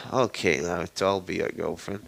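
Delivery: lightly acted reluctant yes; sighing consent. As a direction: give in with a mild sigh in the voice. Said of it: "Anko sighs and says".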